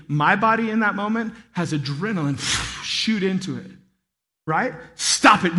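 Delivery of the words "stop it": yelled command. Shown as a demonstration. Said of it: "when I yell like that".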